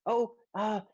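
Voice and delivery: a hint of a flustered gentleman; Rainier, apologetic gentleman. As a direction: make polite, hesitant excuses in character. GM voices Rainier.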